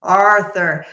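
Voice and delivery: Arthur in a New England accent. Shown as a demonstration. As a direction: drop the r in Arthur, AH-thuh. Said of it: "my bad New England accent".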